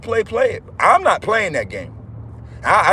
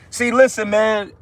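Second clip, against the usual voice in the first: louder, rising fervor on yes, yes; carried away by the spirit, louder; excited in the spirit; 3 semitones higher, 3 dB louder, slower than usual. Real, not acted. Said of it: "I'm getting a little excited in the spirit".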